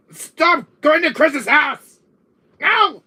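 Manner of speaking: slow, high, full-voiced yell; exasperated high shouting; frantic scolding. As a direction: holler at your brother to stop, stretching the words. Yelling to stop the brother.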